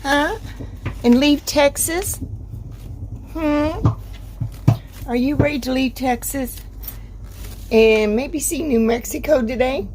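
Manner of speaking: light, sing-song pet talk; talking to a dog. Real, not acted.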